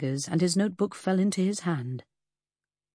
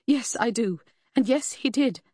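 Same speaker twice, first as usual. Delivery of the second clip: higher and louder, forced out in anger; outburst; 6 semitones higher, 4 dB louder than usual. Acted. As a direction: finally blurt it out hard. Lucy bursting out the answer.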